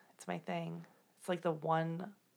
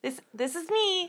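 put-on Midwest accent; 11 semitones higher than usual.

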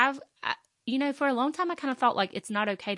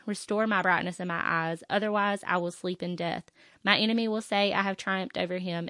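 scripture reading. Acted. Podcast host reading Psalm thirteen to listeners, earnest. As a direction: read the plea out like a prayer.

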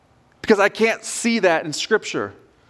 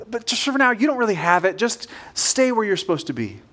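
lightly voiced inner doubter, slightly raised pitch; little inner voice; 3 semitones higher than usual. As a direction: gently talk yourself out of it. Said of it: "it's a little voice that says".

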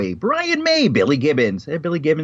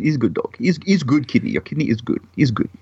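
lightly imitated Russian accent; mock a Russian technician. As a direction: loose comic Russian accent. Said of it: "My Russian accent is so bad".

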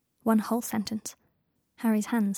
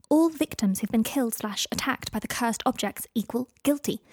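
hurried letter voice. Acted. Hermione rushes her findings to Draco, lightly voiced and excited. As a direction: read the letter in a hint of breathless Hermione.

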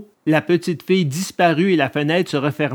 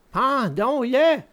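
slow, subdued villain echo; echoing assassin; 9 semitones higher, 4 dB quieter, slower than usual. A narrator's reading. Second assassin agreeing to the hanging, slow echo.

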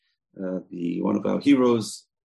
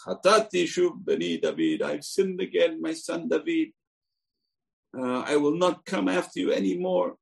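Saul repenting; 7 semitones higher than usual. Acted.

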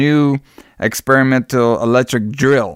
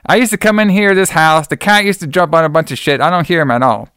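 pushy questioning; 5 semitones higher, 3 dB louder than usual. Retold or imitated. Hill grills Dan about cat.

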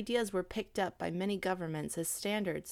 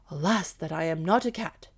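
louder gruff lament; moaning; 2 semitones lower, 6 dB louder than usual. Acted. Dog moans he can't climb like a cat, gruff. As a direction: moan it as the sorry dog. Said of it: "moaned Blackfoot".

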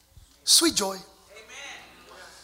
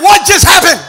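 confused youngster; 8 semitones higher, 16 dB louder than usual. Retold or imitated. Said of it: "Anybody under twenty going".

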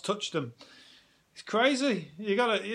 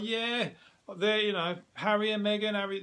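gushing fan; 6 semitones higher than usual. Retold or imitated. Imitating gushing fans.

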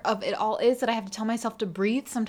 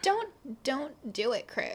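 downward vocal fry; 6 semitones higher, 3 dB quieter than usual. Shown as a demonstration. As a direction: start high and slide down into fry. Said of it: "do it downward and vocal fry".

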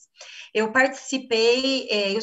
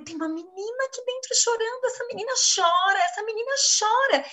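high, fast, pleading retelling of distress; anguished plea; 10 semitones higher, faster than usual. Retold or imitated. Wife telling her husband a little girl is crying inside her, high and anguished. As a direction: relive the panic of feeling a girl crying inside.

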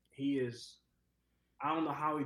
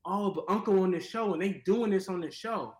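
imitating nieces; 6 semitones higher, 7 dB louder than usual. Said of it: "watching something and going".

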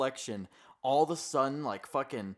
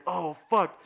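mock dismay; 3 semitones higher, 6 dB louder than usual. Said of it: "Daniel's like".

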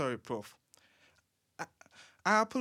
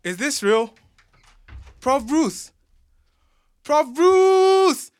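high, loud, gushing excitement; starstruck; 10 semitones higher, 11 dB louder, slower than usual. Acted. Young fan meets Prof Bruce at his door, shrieking with excitement.

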